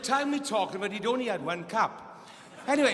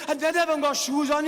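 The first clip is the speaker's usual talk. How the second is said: high, loud exasperated cry; mock shouting; 7 semitones higher, 5 dB louder than usual. Billy shouting from the swamp to Max, mock yelling. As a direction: yell it like you're worn out. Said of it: "he was shouting and screaming".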